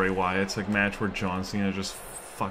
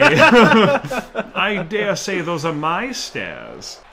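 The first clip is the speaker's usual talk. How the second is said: laughing; 7 semitones higher, 8 dB louder, much slower than usual. Real, not acted. Laughing as a rival steals his stairs.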